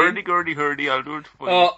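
high, loud mock Ulrika voice. Asked to carry on the scene, voicing Ulrika high and loud. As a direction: squeak it out as a silly Ulrika. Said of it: "what did Ulrika say".

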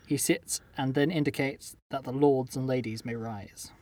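slow storyteller, starting loud and settling down; story narration. A narrator's reading. Host reading the king's entrance to players, story narration. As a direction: announce the king, then ease into measured description. Reads the game's story aloud.

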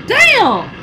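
high, loud, squeaky "Damn"; mock shock. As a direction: jump way up in disbelief. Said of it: "I be like".

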